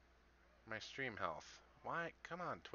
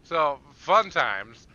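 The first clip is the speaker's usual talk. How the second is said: laughing; 4 semitones higher, 13 dB louder, slower than usual. Real, not acted. Laughing after the explosion.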